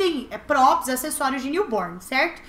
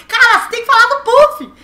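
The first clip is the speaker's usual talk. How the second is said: loud, higher boss shout; 7 semitones higher, 9 dB louder than usual. Retold or imitated. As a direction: bark it like an impatient boss. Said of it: "o chefe aqui da produção vai falar assim".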